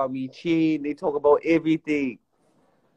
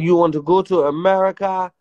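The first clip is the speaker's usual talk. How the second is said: mock African accent. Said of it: "I said".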